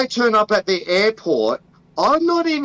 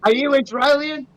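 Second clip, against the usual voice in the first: higher mock officer asking suspiciously; mock customs officer; 6 semitones higher than usual. Officer questions Australian traveller at airport, mock-suspicious higher voice. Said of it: "I'd be like".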